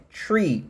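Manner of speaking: "Tree" with a plain T, no breath through the teeth; "tree" as in árvore. Shown as a demonstration. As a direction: say "Tree", the word for a tree. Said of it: "Tree é árvore".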